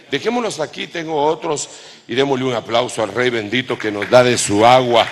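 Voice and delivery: llama a la congregación a aplaudir, en voz alta; llamado fuerte a aplaudir. Real, not acted. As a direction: alza la voz para pedir un aplauso. Pide aplauso al público. (pide un aplauso al Rey con voz fuerte)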